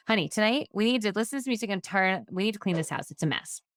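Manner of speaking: blunt, demanding order with no please; bossy demand. Shown as a demonstration. Ordering her husband to clean the messy house, blunt and bossy. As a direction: tell him flat out what has to happen. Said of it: "Same statements, different tone of voice".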